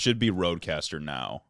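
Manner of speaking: hollow echo, like in a cavern. Real, not acted. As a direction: voice ringing as if in a cave. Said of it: "Y'all sound like you're in a cavern".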